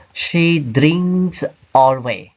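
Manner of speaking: slow deliberate wrong example; wrong sentence. Shown as a demonstration. Teacher showing students the wrong position, slow and careful. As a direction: draw the mistake out slowly. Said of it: "we don't say".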